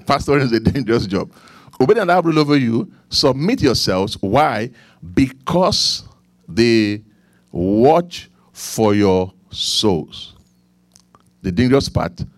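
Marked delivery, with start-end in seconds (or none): 1.8-4.2 preaching scripture. Acted. Quotes scripture while preaching. 5.1-10.3 weighty, slow delivery with pauses between words; preaching scripture. Acted. Preacher quoting a verse to the congregation on obeying leaders, slow emphatic preaching.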